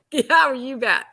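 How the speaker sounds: mock breezy assurance, a little high; faking cool. Actress bluffing to the director, faking cool. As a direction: toss it off as if it's nothing. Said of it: "I'm trying to be Miss, Miss Cool".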